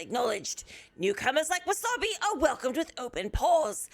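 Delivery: calm wildlife-film narrator; nature documentary. Acted. Mock nature documentary chat summary.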